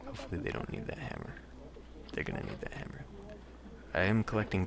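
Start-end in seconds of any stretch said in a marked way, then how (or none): 0.0-1.3 high hopeful voice. Pretend. Hopeful aside, then grim answer. 2.1-3.0 low whispered doom. Pretend. Grim answer to own hope.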